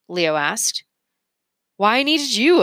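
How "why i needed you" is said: delighted inventor. Acted. Mergenser fond reveal.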